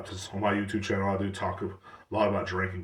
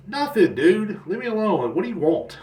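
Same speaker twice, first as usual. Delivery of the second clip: annoyed brush-off; 10 semitones higher, 4 dB louder than usual. Retold or imitated. Brushing off texting visitors.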